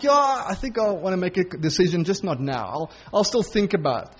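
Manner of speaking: mild, offhand put-off; lightly voiced idle brush-off; complacent shrug. Preacher imitating a complacent listener, mild offhand shrug. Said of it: "That's exactly this attitude".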